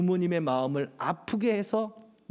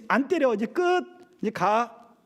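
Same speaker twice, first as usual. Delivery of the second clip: curt parent; 4 semitones higher than usual. Retold or imitated. Parent dismissing the child.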